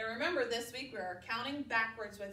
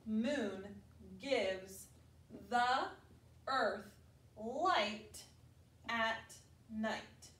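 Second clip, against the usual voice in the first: slow word-by-word reading; much slower than usual. Shown as a demonstration. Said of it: "My turn to read".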